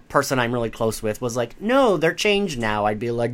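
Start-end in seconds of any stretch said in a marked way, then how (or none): 1.6-2.9 higher, drawn-out mock plea; pleading friend. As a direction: imitate a friend protesting, stretched out. Voices friend's imagined protest.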